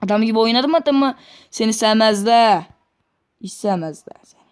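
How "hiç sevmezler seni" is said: unvoiced whisper; whispering to himself; whispered aside. Real, not acted. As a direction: hiss it under your breath.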